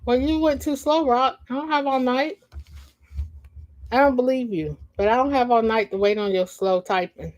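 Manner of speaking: teasing impatience. Real, not acted. Teasing slow chat typer.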